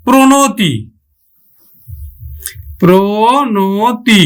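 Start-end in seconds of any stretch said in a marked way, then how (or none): 2.8-4.2 drawn out. Shown as a demonstration. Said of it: "আমরা উচ্চারণ করব কিন্তু".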